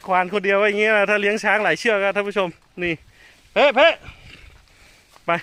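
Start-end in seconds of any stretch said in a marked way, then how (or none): 3.5-5.3 high, loud sharp command; command call. Real, not acted. Mahout commanding elephant, loud call. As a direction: bark the command at her.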